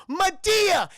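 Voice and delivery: high, loud shocked yell; alarmed shout. Retold or imitated. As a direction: cry out on seeing the scene. Staff bursting into the room.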